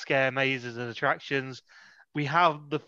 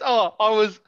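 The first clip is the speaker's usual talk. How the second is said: higher, louder mock villain reveal; 4 semitones higher, 5 dB louder than usual. Reviewer mimicking Pissy Boy's reveal, mock-dramatic. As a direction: send up a character's big confession.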